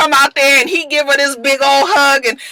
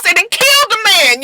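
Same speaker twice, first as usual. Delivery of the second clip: shocked exclaim; 11 semitones higher, 3 dB louder than usual. Real, not acted. Shocked at character's death.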